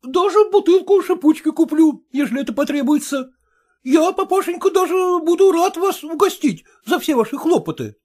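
grateful son-in-law, high and ingratiating; high, fawning gratitude. Acted. Son-in-law thanking father-in-law, high and fawning. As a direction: lay the thanks on thick. Porfiry promises champagne.

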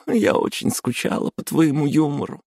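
высоко, сквозь смех; радостно благодарит; Hataru, grateful. Acted. Hataru voiced high. (Хатару радостно говорит подруге)

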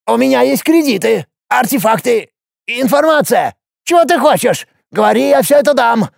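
high, creaky, hurried offer; creaky dwarf bargaining. A narrator's reading. Dwarf Hopus offers Alex anything to be spared, high and creaky. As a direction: plead and bribe in a creaking voice.

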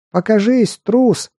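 high furious yell; angry shout. Acted. Girl shouting at the necromancer.

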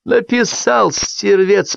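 high-pitched angry bark. A narrator's reading. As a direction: spit out the accusation word by word. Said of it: "произнёс он лающим голосом".

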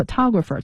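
photographer with TO as the stressed syllable; pho-TO-grapher, beat on the middle; stress on second syllable. Shown as a demonstration. Teacher contrasting it with photograph, photographer stressed on TO. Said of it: "涛是那个重音".

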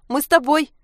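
high, loud squeal repeated. Acted. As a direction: squeal it again, pleading. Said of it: "заверещала Анька".

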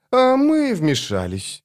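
high, slow female voice; a woman, calm and knowing; woman's voice. A narrator's reading.

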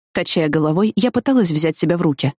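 plain reading voice

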